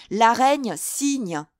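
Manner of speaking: high, loud, very drawn-out call; shouted announcement. A narrator's reading. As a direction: proclaim it to the crowd below. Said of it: "cria-t-il".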